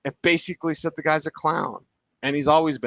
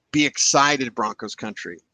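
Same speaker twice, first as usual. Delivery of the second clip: excited; 2 semitones lower, 3 dB louder than usual. Real, not acted. Rallying fans.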